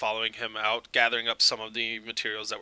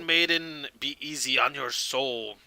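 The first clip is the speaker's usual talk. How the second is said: lightly raised, projected send-off; solemn character farewell; 4 semitones higher, 6 dB louder than usual. Acted. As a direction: pronounce a formal farewell to the condemned. Voices character bidding gnome farewell.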